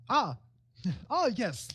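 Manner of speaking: hearty in-character welcome; Magnus, welcoming host. Acted. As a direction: make grand introductions among friends. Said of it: "Magnus says".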